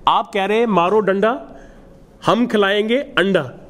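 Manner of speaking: teasing sing-song jibe at the stick; mocking rhyme. Imam teasing the mother about beating children, mocking. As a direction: make fun of her, playfully rhyming. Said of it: "मैंने मजाक बनाया".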